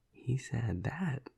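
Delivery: slow, drawn-out incredulous question, pitch lifted; amused disbelief. Acted. Vampire hearing of a juvenile's boast, amused disbelief. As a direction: draw it out, scoffing in disbelief.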